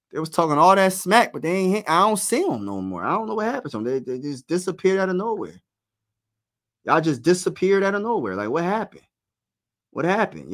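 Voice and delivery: teasing taunt. Real, not acted. Taunting vanished rival fans in chat.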